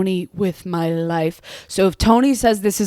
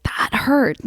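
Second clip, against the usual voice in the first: whimpering in pain; 5 semitones higher, 3 dB quieter than usual. Retold or imitated. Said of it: "I was like".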